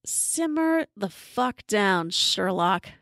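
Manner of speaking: slow, drawn-out "simmer down"; dismissive put-down. Acted. Narrator answering the screaming woman, dismissive put-down. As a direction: tell off an overexcited sleuth, taking your time. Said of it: "I give her my best".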